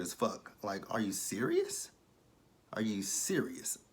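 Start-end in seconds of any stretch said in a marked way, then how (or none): 2.7-3.8 slow whispered disbelief. Real, not acted. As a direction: breathe it out in a whisper, stunned.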